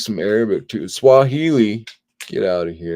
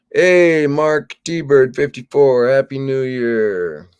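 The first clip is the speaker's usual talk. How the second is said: louder, higher, slow hello; calling out greeting; 4 semitones higher, 5 dB louder, slower than usual. Real, not acted. Streamer greeting a new viewer, loud and drawn out. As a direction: call out a welcome to a newcomer.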